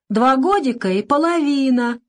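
put-on high toddler voice, whining; tearful little boy. A narrator's reading. Boy tells the doctor his age, tearfully. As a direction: answer like a small child in tears.

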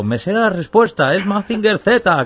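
high, slow smug know-it-all voice; imitating a smug listener. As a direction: squeak it out like a cocky guesser. Host voices a listener's guess.

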